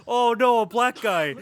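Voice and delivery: loud, high mock panic; mock alarmed Shelly. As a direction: yelp it like a scared dumb guy. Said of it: "Shelly was like".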